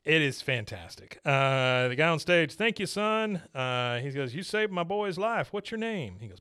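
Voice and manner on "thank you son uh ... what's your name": higher, earnest thankful voice; imitating a grateful owner. Pig owner thanks the boy who saved his pig, high voice.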